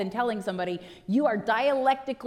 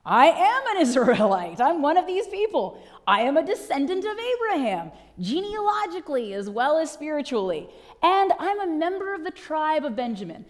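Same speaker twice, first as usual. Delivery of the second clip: voicing Paul; 4 semitones higher, 4 dB louder than usual. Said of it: "And Paul says".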